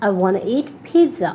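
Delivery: "wanna" as one word, no second t; shortened form. Shown as a demonstration. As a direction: blend want to into "wanna". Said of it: "you can say".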